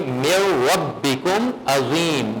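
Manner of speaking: slow "میو ربکم عظیم" with a full-mouthed R; correct heavy-R recitation. Shown as a demonstration. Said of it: "تو اس کو پڑھیں گے".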